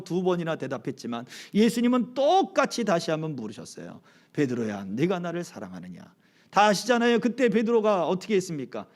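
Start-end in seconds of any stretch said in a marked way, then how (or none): 4.3-6.0 softer, tender question to Peter; gentle asking. Acted. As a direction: ask him softly, like a forgiving friend. Jesus asks again gently. (부드럽고 다정하게 묻는 예수님)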